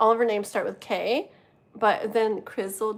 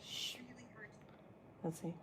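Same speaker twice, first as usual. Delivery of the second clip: hushed; 22 dB quieter than usual. Real, not acted. Hushing while reading aloud.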